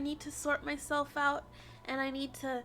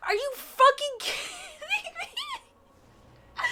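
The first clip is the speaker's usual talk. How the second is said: laughing disbelief; 10 semitones higher, 4 dB louder, much slower than usual. Real, not acted.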